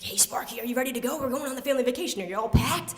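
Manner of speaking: put-on eager kid talk, lifting in pitch; excited. Child to lizard before family vacation, excited. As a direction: build excitement toward the last question.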